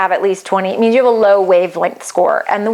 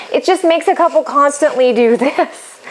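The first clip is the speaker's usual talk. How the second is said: higher-pitched, breaking into a laugh; 5 semitones higher than usual. Real, not acted. Coach describing an out-of-step couple, amused and laughing. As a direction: let a real laugh slip in near the end. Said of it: "And I'm laughing".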